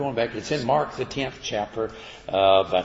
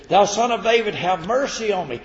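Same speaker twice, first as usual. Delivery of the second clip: crying out; 10 semitones higher, 7 dB louder than usual. Retold or imitated. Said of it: "he cried the more".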